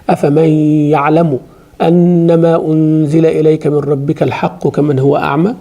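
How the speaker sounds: fast, flowing chanted Arabic; a teacher reciting the verse to her students; Quranic recitation. Acted. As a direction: recite the verse as tilawah, melodic and steady.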